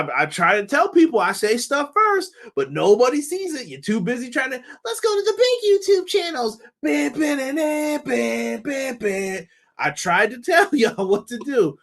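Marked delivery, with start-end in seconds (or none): 4.8-9.5 mocking voice. Mocking fans of big channels.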